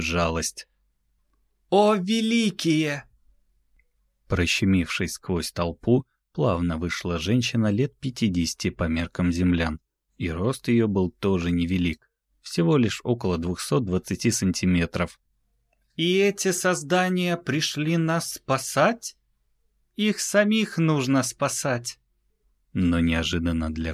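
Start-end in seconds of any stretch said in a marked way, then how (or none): 1.7-3.0 высокий, протяжный нечеловеческий возглас; воскликни благоговейно и протяжно; восторженный возглас. Acted. Возглас из толпы. 16.0-22.0 высокий голос жалостливой женщины-пришелицы. Acted. Женщина-изначальная жалеет землян.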